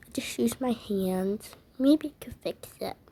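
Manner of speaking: soft sheepish whisper. Acted. Child whispering an excuse to Mommy. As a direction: mumble the excuse under your breath.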